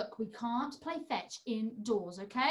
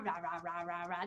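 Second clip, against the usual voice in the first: dinosaur roar; 8 semitones lower, 8 dB quieter than usual. Pretend. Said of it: "Rory the dinosaur".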